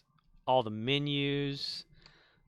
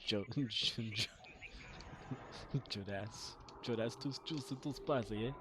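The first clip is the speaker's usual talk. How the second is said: laughing; 8 dB quieter than usual. Real, not acted. Stumbling through laughter on phrase.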